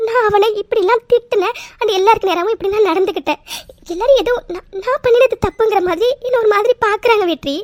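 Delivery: upset, voice catching with sobs; tearful complaint. Acted. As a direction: justify yourself through held-back tears. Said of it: "please அழாதீங்க".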